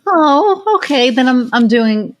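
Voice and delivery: high 'oh', settling down gradually; pleasantly surprised inner voice, pitch falling; dawning realization. Retold or imitated.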